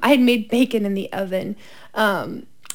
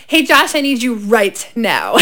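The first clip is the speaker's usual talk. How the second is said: calm but urgent; 2 semitones lower, slower than usual. Retold or imitated. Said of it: "as calmly but urgently as I could".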